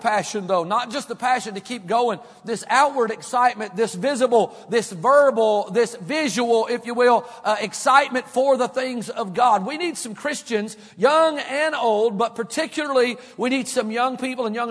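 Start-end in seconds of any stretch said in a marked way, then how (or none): 2.4-12.4 building preaching fervor. Acted. Preacher urging the church toward zeal, building. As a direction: build the passion phrase by phrase.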